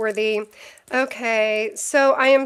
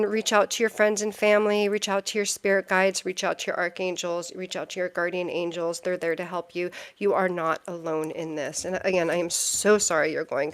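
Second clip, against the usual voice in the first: consoling; 3 semitones lower than usual. Real, not acted. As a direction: gently reassure someone who is hurting. Consoling a struggling viewer.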